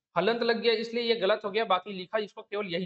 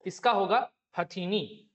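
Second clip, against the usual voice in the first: slow stress on answer; slower than usual. Shown as a demonstration. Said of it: "तो क्या होगा".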